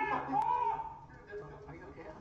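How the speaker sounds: high, slow pained laugh; laughing through the burn; mouth burning from spicy food. Real, not acted. Laughing in pain from spice.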